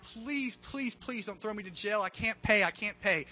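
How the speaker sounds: mildly panicked pleading, kept soft; mock freaking out. Servant begging the king over his debt, mildly freaking out. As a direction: beg in a half-hearted little panic. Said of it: "the guy starts freaking out".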